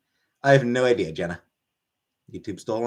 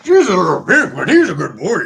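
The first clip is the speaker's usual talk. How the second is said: pet talk to cat; 5 semitones higher, 9 dB louder than usual. Real, not acted. Praising cat Sam.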